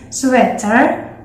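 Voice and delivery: 'sweater' with EH in the middle; short E vowel. Shown as a demonstration. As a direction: say 'sweater' as 'swetter', not with EE. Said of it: "they don't pronounce it as".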